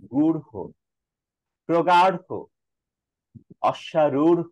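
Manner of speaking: দৃঢ়, গাঢ়, অশ্বারূঢ় each said slowly with breath after the flap; careful word drill with breathy ঢ়; aspirated ঢ় in words. Shown as a demonstration. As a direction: articulate the final ঢ় with air. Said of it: "এটা বাতাসটা এভাবে হবে".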